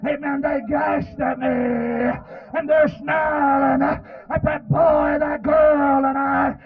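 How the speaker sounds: slow, stretched-out preacher's wail; crying sermon chant; anguished preaching. Real, not acted. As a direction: drag out the last word of each phrase. Preacher wails about snarling attackers.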